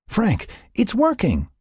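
high, drawn-out call over the radio. A narrator's reading. Lynn to Frank as the winch takes up cable, calling out. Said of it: "Lynn called out over the comm set".

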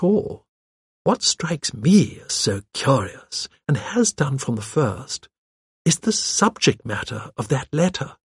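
put-on unhurried, thoughtful old lady; genteel, deliberate elderly voice; old lady sleuth. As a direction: muse gently toward a clue.

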